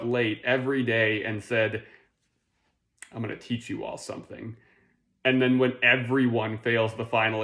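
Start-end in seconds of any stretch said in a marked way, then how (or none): 3.1-4.6 soft, quick half-hearted announcement; lackadaisical teacher. Acted. Late teacher addressing the class, soft and half-hearted.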